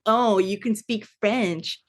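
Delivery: slow mock admiration; drawn-out teasing quote. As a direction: imitate someone sneering at a rival's language skills. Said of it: "then mocking him in Russian".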